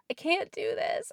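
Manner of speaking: high, voiceless squeak of a plea; a breathless whispered squeak, barely out. Retold or imitated. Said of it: "I just kind of squeaked that out".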